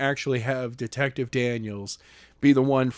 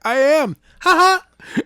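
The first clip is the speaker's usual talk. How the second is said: high, loud bratty taunt; Skylar taunting; 12 semitones higher, 6 dB louder than usual. Retold or imitated. Skylar mocking the reader, high and bratty. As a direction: taunt them like a smug kid. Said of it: "He's like".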